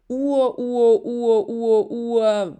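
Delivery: playful counting. Acted. Josef counting great-great-grandfathers playfully.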